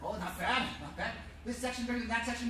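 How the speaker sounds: ordinary talk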